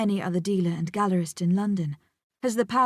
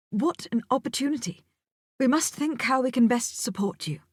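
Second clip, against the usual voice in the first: Lawrence, pleased; 5 semitones higher than usual. Acted. Lawrence continues, excited.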